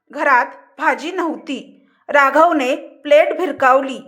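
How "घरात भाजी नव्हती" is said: fearful. Acted. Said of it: "Pallavi घाबरत म्हणाली".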